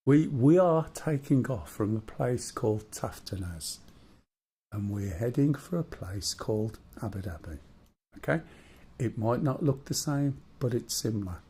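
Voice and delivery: storyteller voice. Acted. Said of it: "his proper storyteller voice".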